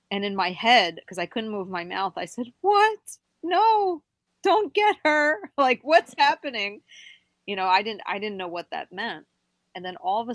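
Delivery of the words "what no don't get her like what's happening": high, loud alarmed protest; retold panic. Retelling silent protest to the little man, panicked. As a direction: cry out in mock panic, pitch shot up.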